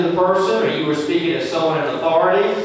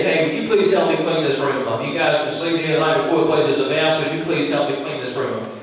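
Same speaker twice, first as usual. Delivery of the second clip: friendly, asking nicely for help; polite adult request. Shown as a demonstration. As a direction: ask as an equal, kindly. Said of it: "That's as an adult".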